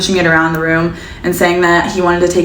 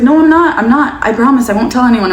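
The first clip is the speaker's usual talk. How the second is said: frightened plea; 5 semitones higher than usual. Retold or imitated. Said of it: "I was like".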